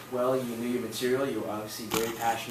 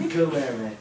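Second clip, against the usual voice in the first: laughing; 4 semitones higher, 6 dB louder than usual. Real, not acted. Correcting name while laughing.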